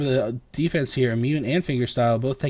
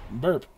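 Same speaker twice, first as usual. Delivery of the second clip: burp; 3 dB quieter than usual. Real, not acted. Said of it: "Excuse me, I'm burping".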